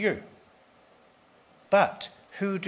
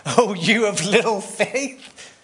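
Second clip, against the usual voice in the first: excited mock rebuke; 6 semitones higher, 5 dB louder than usual. Jesus rebuking disciples, then excitement.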